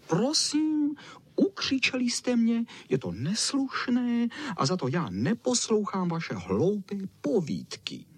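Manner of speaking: high, offended squeal of a pampered dog. A narrator's reading. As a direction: squeal out your hurt pride. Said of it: "Zaječel Čau Čau".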